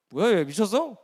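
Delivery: lightly acted bewildered reaction; flustered uncle. Uncle baffled by nephew's pious answer, flustered. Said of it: "그 삼촌이 당황하죠".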